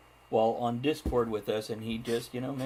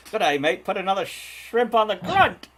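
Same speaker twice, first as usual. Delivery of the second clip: loud, higher mock Australian accent; 7 semitones higher, 8 dB louder than usual. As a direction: ham up a jokey Aussie accent. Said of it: "I think that was Australian".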